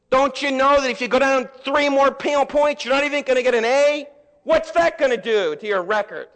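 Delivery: mock a demanding dad berating his kid; scolding dad. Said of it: "daddies that would never just love you".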